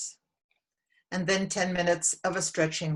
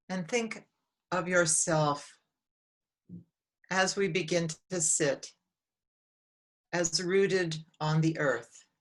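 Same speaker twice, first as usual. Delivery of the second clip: calm, measured meditation guide with long pauses; unhurried guidance, phrase by phrase; guided meditation. Real, not acted. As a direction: lead them gently inward, leaving long silences between phrases.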